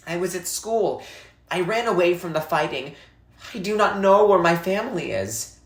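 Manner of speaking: put-on a frightened boy insisting he is no orphan; young boy, upset. Salva answers, boy's voice.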